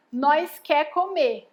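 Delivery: slow, spaced-out "Nós quer comer"; wrong example sentence. Shown as a demonstration. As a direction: hold up the faulty "Nós quer comer" slowly. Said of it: "a gente não fala assim".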